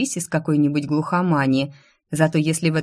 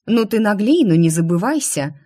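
louder, higher outraged protest; indignant; 4 semitones higher, 4 dB louder than usual. Acted. Girl bargaining with her sister, indignant louder protest. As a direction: bristle at your sister's greed. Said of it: "возмутилась я".

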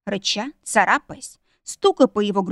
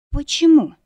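high, louder puzzled question; bewildered; 6 semitones higher, 6 dB louder than usual. A narrator's reading. Wife to husband who stopped her, bewildered. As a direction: ask it in sheer puzzlement. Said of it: "недоумевая".

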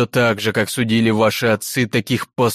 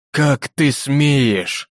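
негодующий гром; 5 semitones higher, much slower than usual. Acted. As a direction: thunder it out in indignation. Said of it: "гремит ей негодующий хор голосов". (хор судей гремит на девушку с негодованием)

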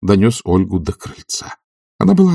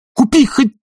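high strained command breaking off; agitated, loud master; improvised order; 14 semitones higher, 3 dB louder, much slower than usual. A narrator's reading. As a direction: blurt out any errand, falling in pitch. Oblomov shouting invented errand.

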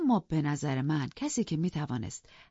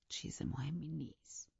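slow reassuring whisper in his ear; 10 dB quieter, slower than usual. Acted. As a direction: hush him softly. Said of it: "زیر گوشش گفتم". (نجوای آرام و کند در گوش ارباب)

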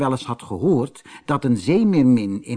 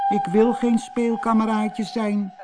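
high, tearful little mermaid voice; acted sobbing protest, pitched high; 9 semitones higher than usual. A narrator's reading. Little mermaid refuses to be a playmate, sobbing. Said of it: "snikte ze".

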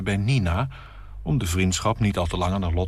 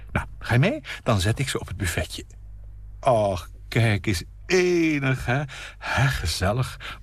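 chattering hostess; 3 semitones higher than usual. Acted. Nina chattering to her guest about flowers, light. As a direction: babble happily about flowers.

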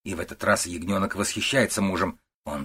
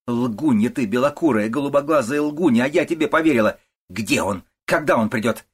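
angry scolding; 5 semitones higher, 6 dB louder than usual. A narrator's reading. Mother-in-law berates her.

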